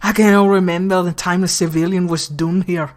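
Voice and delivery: clumsy attempt at Scottish; bad Scottish accent. Governor on hardened criminals, in a poor Scottish accent. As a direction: have a rough go at a Scottish accent. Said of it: "my Scottish accent is fucking trash".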